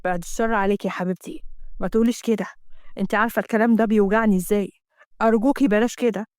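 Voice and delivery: a hint of a pleading man's voice; lightly voiced tender husband.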